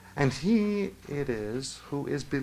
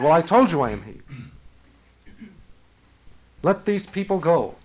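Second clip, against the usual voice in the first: raised voice, high and loud; angry retelling; 4 semitones higher, 9 dB louder than usual. Retold or imitated. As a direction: quote an exasperated command at full voice. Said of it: "he said angrily".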